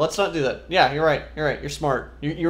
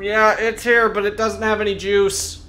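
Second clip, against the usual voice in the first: yelling across the room; 5 semitones higher than usual. Acted. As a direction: shout it over to the others. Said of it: "I'm just gonna yell across the room".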